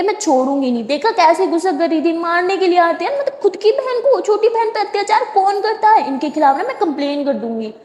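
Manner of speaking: indignant complaining, pitch rising sharply; angry rant. Acted. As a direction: rant like a wronged little sister. Sara ranting angrily.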